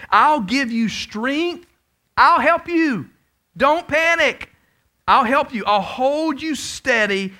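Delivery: slow, firm and comforting; slow, reassuring voice of God; reassuring scripture reading. Acted. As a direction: speak God's promise tenderly. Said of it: "Isaiah forty-one and ten".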